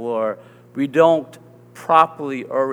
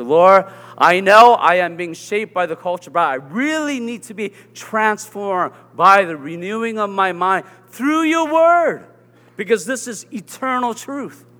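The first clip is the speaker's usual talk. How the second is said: prayer; 4 semitones higher than usual. Acted. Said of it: "to say to the Lord through Scripture".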